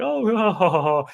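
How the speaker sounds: high giggling ha ha ha; girlish laugh. Retold or imitated. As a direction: play a girl giggling along at his story. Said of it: "she's kinda laughing".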